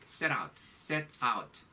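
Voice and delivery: teacher drill of set out; slow drill. Shown as a demonstration. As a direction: set out said very slowly, linked.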